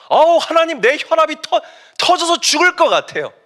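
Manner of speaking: defiant outburst, very high and loud; Jonah. Acted. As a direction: talk back as if about to explode. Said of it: "요나가 진짜 이렇게 하나님께 개겨요". (대들듯 높고 크게 터뜨리는 짜증)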